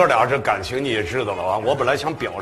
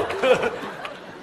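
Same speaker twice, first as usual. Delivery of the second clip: airy laugh bursting out; breathless laugh; 11 semitones higher, 4 dB quieter than usual. Real, not acted. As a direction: laugh out without voice. Reacting to dolphin singing.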